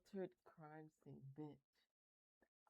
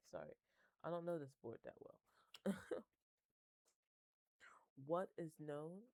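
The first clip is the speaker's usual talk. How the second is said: usual speaking voice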